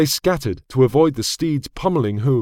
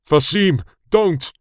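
higher, urgent cry to stop; alarmed cry; 5 semitones higher, slower than usual. A narrator's reading. Oman sees brother draw his sword, alarmed cry. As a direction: cry out to stop him, pitch climbing. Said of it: "Oman cried".

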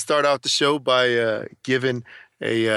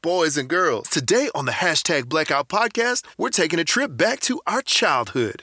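grand entrance announcement; 4 semitones higher than usual. Acted. Podcast intro announcement.

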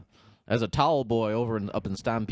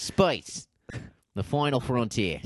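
Australian accent; slower than usual. Shown as a demonstration. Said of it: "You try it".

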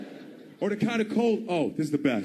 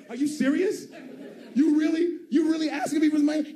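outraged shout; 8 semitones higher than usual. Retold or imitated. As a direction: blow up in disbelief. Outraged at a homeless man asking.

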